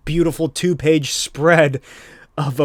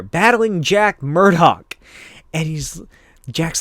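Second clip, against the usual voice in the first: normal talking voice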